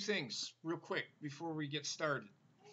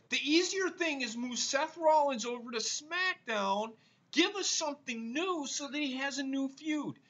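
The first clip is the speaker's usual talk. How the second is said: angry rant; 5 semitones higher, 4 dB louder than usual. Real, not acted. Ranting after vowing not to yell.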